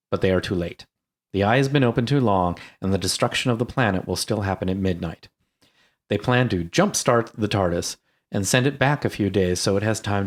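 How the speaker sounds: measured, read-aloud synopsis voice; plot recap narration. A narrator's reading. Podcast host reading the movie's plot to listeners, even narration.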